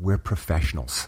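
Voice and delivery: secretive, hushed, conspiratorial whisper. Retelling what a woman leaned in and said: imitating a conspiratorial whisper. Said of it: "leaned over and whispered to me".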